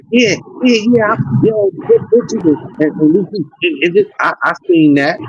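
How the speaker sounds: high, rushed excited outburst. Real, not acted. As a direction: blurt it out, pitch jumping up. Excited recognition of old boy.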